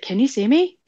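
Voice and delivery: animado. Retold or imitated. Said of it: "Like, all excited".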